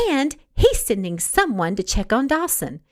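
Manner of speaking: eager news, a touch brighter in pitch; mild excitement about the visitor; excited. Acted. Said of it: "excitement brimming in her eyes".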